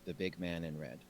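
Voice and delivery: slow, measured formal greeting; a hint of ceremonial verse; haiku-like speech. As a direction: speak each line like a careful poem. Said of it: "As she speaks a haiku".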